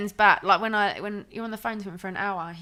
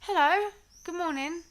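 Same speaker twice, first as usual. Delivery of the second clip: imitating Ben; 6 semitones higher than usual. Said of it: "he goes".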